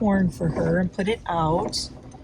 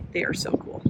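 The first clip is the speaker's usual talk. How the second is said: whispering; 7 dB quieter than usual. Real, not acted. Hushed while watching turkeys.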